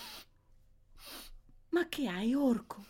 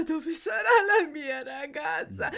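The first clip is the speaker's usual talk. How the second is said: tearful, wailing question; anguished lament; 2 semitones higher than usual. Acted. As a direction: cry out for a lost daughter. Wailing for the lost girl. (domanda disperata, piagnucolando)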